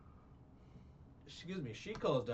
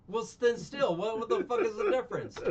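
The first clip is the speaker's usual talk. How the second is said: much higher and louder, laughing "what the fuck"; loud incredulous outburst; 10 semitones higher, 9 dB louder than usual. Real, not acted. Answering cohost's correction with loud laughing disbelief.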